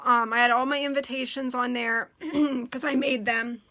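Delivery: hoarse, losing her voice; rough, strained hoarse voice. Real, not acted. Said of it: "I'm losing my voice again".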